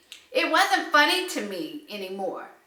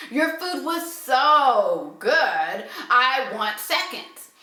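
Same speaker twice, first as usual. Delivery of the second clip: drawn-out, insincere compliment; sarcastic; slower than usual. Acted. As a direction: gush slowly with mild sarcasm. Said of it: "I am being sarcastic".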